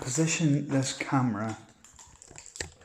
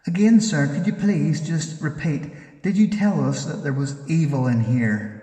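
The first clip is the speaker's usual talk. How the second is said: loud, urgent call to repeat the answer; insistent repeat; 7 dB louder than usual. Real, not acted. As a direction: demand the spirit says it again. Repeating question to spirit.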